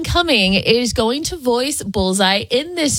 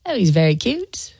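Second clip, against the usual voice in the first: impression of a singer; 3 semitones lower than usual. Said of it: "your best Paul McCartney impression".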